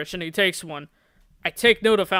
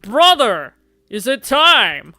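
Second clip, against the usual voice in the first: louder, slow eerie ask; dramatic vampire brother; 2 semitones higher, 7 dB louder, slower than usual. Acted. Second movie vampire asking his brother, loud and slow. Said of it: "Two more vampires slide the tops".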